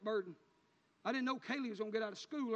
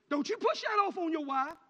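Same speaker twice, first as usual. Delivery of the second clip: louder and higher, pushed harder; louder repeat; 7 semitones higher, 9 dB louder than usual. Acted. Preacher warning fathers a second time, louder and higher. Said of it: "repeated louder".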